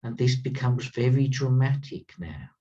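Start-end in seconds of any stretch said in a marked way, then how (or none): 0.8-1.3 very leaned on a little; stress on very. Shown as a demonstration. Teacher stressing very for students. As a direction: give very a slight extra weight. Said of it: "I want to emphasize the word very".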